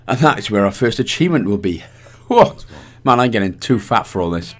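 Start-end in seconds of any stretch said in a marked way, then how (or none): 2.3-2.6 surprised whoa. Real, not acted. Sudden exclaim during gameplay. 3.0-4.5 out of breath. Real, not acted. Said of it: "Or too out of breath".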